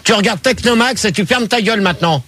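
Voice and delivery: cross host putting someone in their place; irritated telling-off. Real, not acted. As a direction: tell off someone who butted in. Host tells off interrupting co-host.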